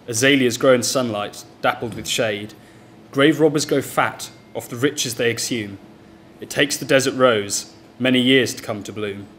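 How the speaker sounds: deliberate, rhythmic verse with a pause after each line; poem recital. Acted. Poet reads a plague poem called Bloom to an audience, poem recital.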